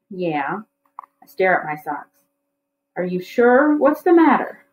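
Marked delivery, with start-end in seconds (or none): 3.0-4.6 higher, lightly voiced worried mother; concerned mother. A narrator's reading. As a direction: ask gently, a bit worried.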